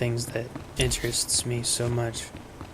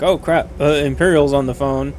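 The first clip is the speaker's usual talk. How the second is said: louder, higher, panicked mock British accent; mock British switch; 3 semitones higher, 7 dB louder than usual. Streamer mimicking the character hastily switching to British. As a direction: jump into the British accent in alarm. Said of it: "he talks with this other accent".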